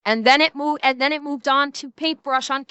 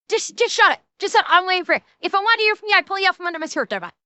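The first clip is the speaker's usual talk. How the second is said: higher-pitched, exasperated telling-off; scolding rant; 4 semitones higher, faster than usual. Real, not acted. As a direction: scold them in a raised pitch. Ranting at an online critic.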